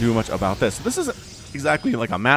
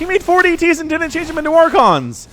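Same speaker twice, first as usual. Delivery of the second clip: high, loud, laughing disbelief; amused disbelief; 7 dB louder than usual. Real, not acted. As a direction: squeal it out mid-laugh. Caster discovers DTs, cracks up.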